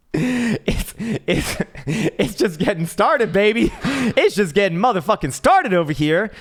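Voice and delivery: high, loud cartoon voice through laughter; cackling squeaky triumph; laughing high mock voice. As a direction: gloat with a giggle.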